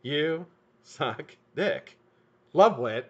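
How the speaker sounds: slow, drawn-out reading of the note. Retold or imitated. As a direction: spell out the daughter's note slowly. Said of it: "There it is".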